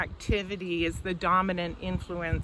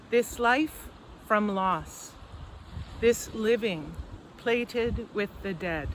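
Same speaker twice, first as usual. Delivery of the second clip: slow, spaced poetry recital; poetry reading; slower than usual. Acted. Poet reads on forest and death to an audience, slow poetry reading. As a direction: read it as verse, long pauses between phrases. Reads own poem aloud.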